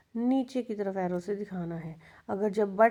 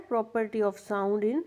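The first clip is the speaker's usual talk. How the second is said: slow dictation; much slower than usual. Shown as a demonstration. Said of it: "pitch क्या होता है?".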